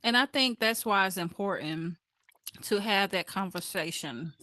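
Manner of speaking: talking with food in mouth; words around a mouthful; mouth full. Real, not acted. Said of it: "I got something in my mouth".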